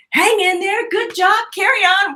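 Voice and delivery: mimicking the guide who walks away, lightly upbeat; breezy encouragement. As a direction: toss it off like a passing pep talk. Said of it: "He goes".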